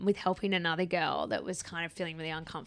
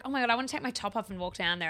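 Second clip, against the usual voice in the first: eager quote; 4 dB quieter, faster than usual. Retold or imitated. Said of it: "So Steph was like".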